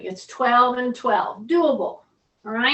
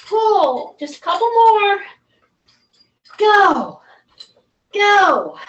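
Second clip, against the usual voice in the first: tug of war; 3 semitones higher, 4 dB louder, slower than usual. Shown as a demonstration. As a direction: drive them through the last reps. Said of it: "coach pushing final reps hard".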